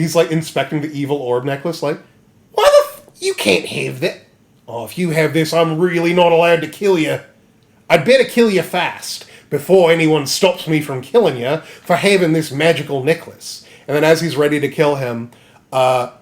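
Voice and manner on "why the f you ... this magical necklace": put-on indignant creature voice; monkey man threat. Monkey Man threatening over the necklace, in a mock menacing voice. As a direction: start squealing, then threaten in a lightly voiced monkey character.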